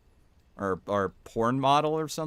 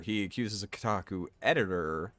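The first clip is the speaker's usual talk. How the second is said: "editor" stressed as the correction; 4 semitones lower, 6 dB quieter than usual. Real, not acted. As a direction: lean on the word "editor". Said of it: "he does not accuse a Kotaku writer".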